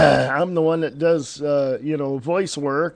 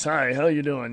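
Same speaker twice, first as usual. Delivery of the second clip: imitated, mock radio announcer voice; 3 dB quieter than usual. Talking about people met at a radio station, imitating a radio voice. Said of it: "they have this radio voice".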